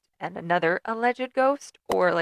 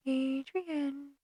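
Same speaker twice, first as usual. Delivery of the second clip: creepy whisper; 6 semitones higher, 4 dB quieter, slower than usual. Pretend. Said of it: "They don't whisper".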